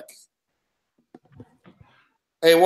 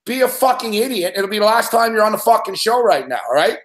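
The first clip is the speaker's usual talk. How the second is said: host scolding. Real, not acted. Host threatening caller Mick on air, firm angry scolding. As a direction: lay down the law, each word firm.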